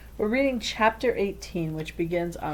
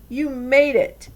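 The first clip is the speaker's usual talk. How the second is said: happy welcome; 8 semitones higher, 7 dB louder, slower than usual. A narrator's reading. Nori greets arriving friend.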